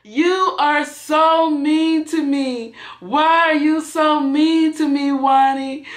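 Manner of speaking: high, slow wailing complaint; drunk wailing. Retold or imitated. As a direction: imitate a drunk sister wailing at you. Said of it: "she screeched the most horrifying scream".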